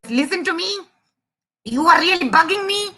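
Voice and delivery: high, quick, indignant mouse voice; exasperated mouse. Acted. Mouse sputtering insults at the elephant, high and exasperated. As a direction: rattle off a cross tirade. Angry mouse argues back.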